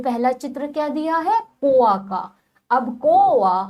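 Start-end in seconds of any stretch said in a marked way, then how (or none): 1.6-3.6 कोआ said with its vowel stretched long; drawn-out vowel. Shown as a demonstration. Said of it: "हम खींच के बोल रहे हैं". (कोआ को खींचकर बोलना)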